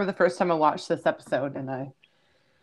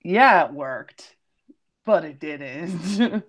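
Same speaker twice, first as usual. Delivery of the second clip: dawning doubt; 3 semitones higher, 4 dB louder, much slower than usual. Retold or imitated. Fan imitating a first-time viewer's slow realization. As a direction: start bright, then let the doubt drag it down. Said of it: "you're just like".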